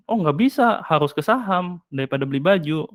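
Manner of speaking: dismissive contradiction. Acted.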